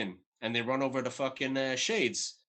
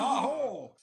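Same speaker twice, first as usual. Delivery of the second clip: mock scream; 10 semitones higher than usual. Recapping the man screaming in the bedroom, mock high cry. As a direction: imitate a man crying out, pitched way up. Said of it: "And he's screaming".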